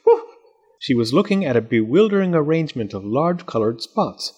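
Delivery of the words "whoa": small scream. Acted. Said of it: "she gave a small scream".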